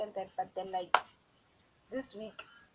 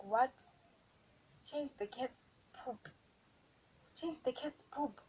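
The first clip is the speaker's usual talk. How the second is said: higher, disbelieving question; incredulous; 4 semitones higher, slower than usual. Retold or imitated. New worker retelling shock at the cat chore, incredulous. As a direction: repeat it back in disbelief.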